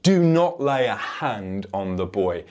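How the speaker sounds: firm, weighty angel's command; emphatic command. Acted. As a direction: lay down the law with each word. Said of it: "And he is emphatic".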